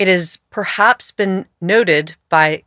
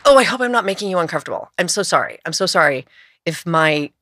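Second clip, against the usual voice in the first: reflexive apology; faster than usual. Acted. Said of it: "It's just reflexive".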